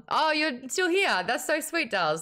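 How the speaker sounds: lightly voiced airy posh girl; high sweet mock-gushing voice; Ianthe voice. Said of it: "the way that Ianthe talks".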